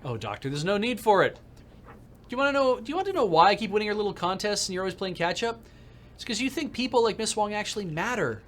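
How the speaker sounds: smarmy rival gloating; smug rival. Acted. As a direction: lecture him smugly. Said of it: "Neville Ma".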